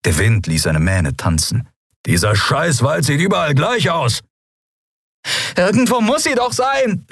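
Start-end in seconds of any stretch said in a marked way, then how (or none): 2.1-4.2 irritated growl climbing in pitch. Acted. Pilot lost over the forest, growling in frustration. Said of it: "knurrte er". 5.6-7.1 high, insistent cry; calling out. Acted. Endriel insisting the ship must be there, high cry. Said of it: "rief sie".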